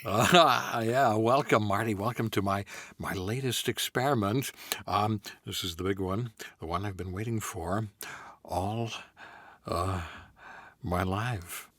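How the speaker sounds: halting, stammering Jeff Goldblum Doc Brown; a stuttering, excited scientist in Goldblum style. Acted. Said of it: "Doc Brown ... Jeff Goldblum".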